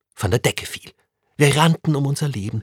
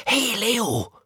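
put-on a boy's call, pitched much higher; 11 semitones higher than usual. A narrator's reading. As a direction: call out excitedly to a friend. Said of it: "denn Tim rief".

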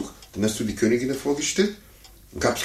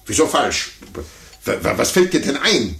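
stammering outrage; 4 semitones higher, 4 dB louder than usual. Acted. Adult outraged at child's correction.

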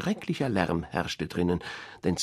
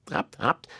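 duck call. Acted. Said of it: "rief sie".

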